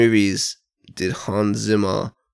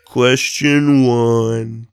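quiz host; 3 dB louder, much slower than usual. Acted. Host reads quiz question.

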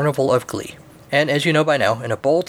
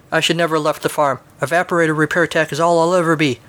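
higher-pitched mild lament; self-pitying; 5 semitones higher than usual. Acted. Luke regretting leaving the farm, mildly self-pitying. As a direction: bemoan it in a lifted voice.

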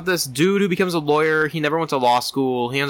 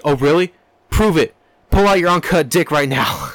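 loud, hammed-up demand; acted challenge; 4 dB louder than usual. Patient demanding proof from therapist, mock challenge. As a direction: challenge him in mock disbelief.

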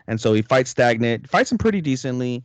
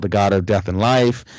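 usual speaking voice

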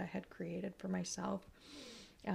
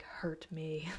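unvoiced teasing whisper; whispered joke; 2 semitones lower, 6 dB quieter than usual. Joking about loving the pain, whispered. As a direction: breathe it out as a cheeky aside. Jokey retold thought, whispered.

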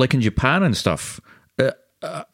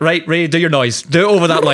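mock director; 4 semitones higher, 5 dB louder than usual. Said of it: "the director's like".

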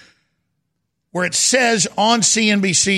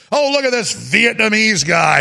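mock-scornful exclamation, raised pitch; mocking John Oliver; 4 semitones higher, 3 dB louder than usual. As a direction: jeer in imitation of a comedian. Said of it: "he tells a big joke".

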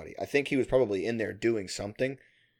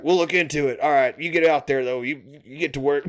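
sharp stern boss; 2 semitones higher, 3 dB louder than usual. Retold or imitated. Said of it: "looks at me real, real sharp".

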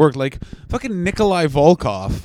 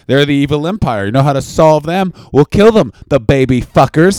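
Ronald Reagan; 6 dB louder than usual. Acted. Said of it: "we had Ronald Reagan being like".

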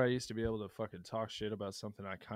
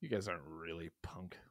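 whispered mock quote; 8 semitones lower, 8 dB quieter than usual.

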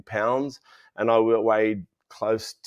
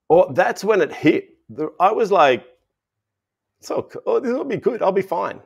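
higher, bright mock reassurance to himself; mock cheerful denial; 8 semitones higher, 5 dB louder than usual. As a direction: play it off like nothing's wrong. Retelling his own cheerful denial.

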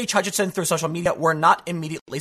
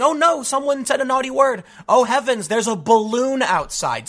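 higher, mock-horrified pearl-clutching whine; mock triggered protester; 5 semitones higher than usual. Mocking an offended protester for his viewers, in a higher mock-horrified voice. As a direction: lampoon an easily offended activist, hammed up. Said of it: "you just sound like a triggered, angry, you know, Antifa".

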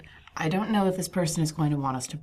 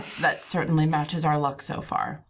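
sarcastic. Real, not acted. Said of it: "I'm being sarcastic".

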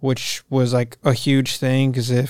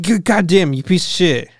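mock yell at phone; 5 semitones higher than usual. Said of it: "I was yelling at my phone".

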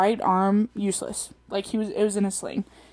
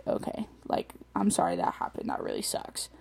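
sympathetic; 9 dB quieter than usual. Retold or imitated. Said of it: "try to be like".

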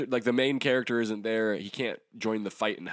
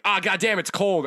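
mock complaint; 10 semitones higher, 6 dB louder than usual. Acted quote of cartoon hero complaining.

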